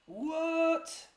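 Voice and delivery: a high squeak of disbelief; real amazed what; astonished what. Real, not acted. Disbelief at finding the road.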